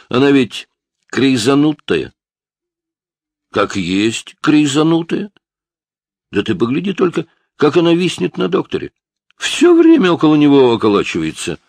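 put-on a jittery young punk talking fast to cover himself; defensive teen. A narrator's reading.

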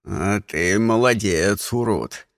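low, slow gruff elder praise; rough but friendly old voice; old man friendly. Acted. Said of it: "Старик дружелюбно стукнул".

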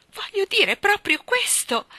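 high, loud, slow insistence; pressing tone. A narrator's reading. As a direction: insist urgently, leaning on each word. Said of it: "ella ripeté in tono pressante". (tono pressante, acuto e insistente)

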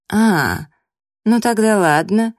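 lightly sarcastic mock consent; snide. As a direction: concede with a mocking lilt. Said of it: "язвительно отозвалась Лейна".

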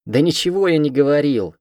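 loud, playful protest; gleeful denial. A narrator's reading. Cat gleefully denies to the heroine. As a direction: deny it with glee. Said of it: "веселится он".

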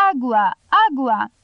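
shouted call. Acted. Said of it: "a strigat".

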